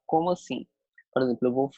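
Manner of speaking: usual speaking voice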